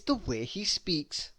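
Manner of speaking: slow secretive whisper; whispered aside. A narrator's reading. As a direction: lean in and whisper it, slowly. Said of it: "storyteller confides aside".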